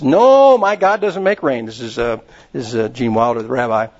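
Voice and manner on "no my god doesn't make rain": rabbi's reply. Retold or imitated. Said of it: "And he says".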